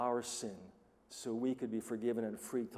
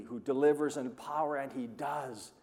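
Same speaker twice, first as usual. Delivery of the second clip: usual speaking voice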